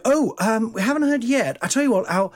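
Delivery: high, hesitant stalling voice; lightly voiced awkward let-down; evasive agent. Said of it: "you know, they go".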